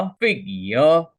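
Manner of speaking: "फिग या" slowly split, stressed FIG then "ya"; syllable-by-syllable demo. Shown as a demonstration. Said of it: "क्या ये होगा".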